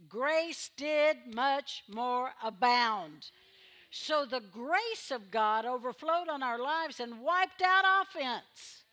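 slow, loud preaching build; full-force preaching. Acted. Preacher proclaiming grace over sin to the church, full force. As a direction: preach the verse, rising to a peak.

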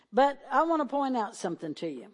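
ordinary talk, nothing marked

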